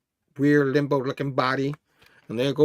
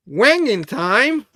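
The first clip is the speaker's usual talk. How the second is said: drawn-out catchphrase; 7 semitones higher, 7 dB louder, much slower than usual. Acted.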